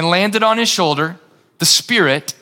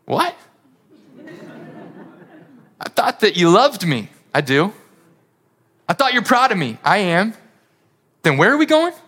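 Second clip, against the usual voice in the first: rising, incredulous question to dad; bewildered son. Acted. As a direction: plead like a confused son. Son protests to Father.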